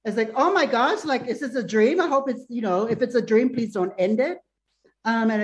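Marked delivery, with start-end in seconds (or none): 0.4-4.4 higher-pitched, mock-overjoyed pleading; retold excited disbelief. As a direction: replay an elated outburst without really screaming. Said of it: "I screamed at the top of my lungs".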